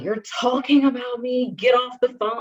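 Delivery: high, pushed imitation of an accusing mother; mom accusing. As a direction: mimic mom ordering her off the phone. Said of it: "and she's like".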